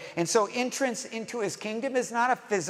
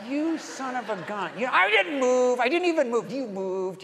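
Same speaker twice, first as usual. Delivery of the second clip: higher-pitched outraged kid's protest, acted out; frustrated protest; 4 semitones higher than usual. Kid sent back in red light green light, frustrated protest. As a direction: act out arguing over an unfair call. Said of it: "Frustrated, defeated, irritated, angry".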